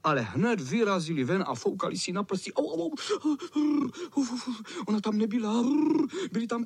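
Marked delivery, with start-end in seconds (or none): 2.5-4.3 vysoké auvej, jako když pálí kopřivy; vypísknout bolestí; bolestné auvej. Acted. (vysoké vypísknutí bolestí)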